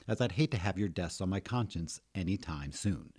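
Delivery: cheerful boss giving introductions; grinning guild leader. Acted. Guild leader introduces himself to newcomers.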